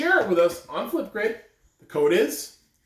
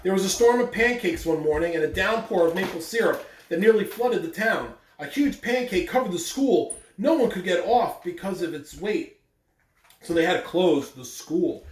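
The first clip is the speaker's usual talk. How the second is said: reading a picture book aloud to the class; even, steady storybook reading voice; story narration. Acted. Teacher reading the story to her students, storytelling voice.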